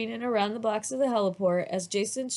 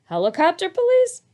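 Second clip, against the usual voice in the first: put-on child voice; 11 semitones higher, 8 dB louder than usual. A narrator's reading.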